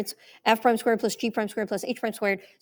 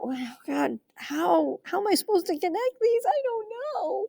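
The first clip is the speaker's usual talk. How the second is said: panicked student; 9 semitones higher than usual. Retold or imitated. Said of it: "try to figure out".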